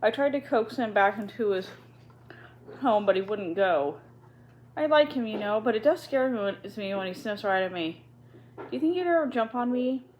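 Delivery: young girl worried about the rat, lightly voiced. Ermengarde voiced.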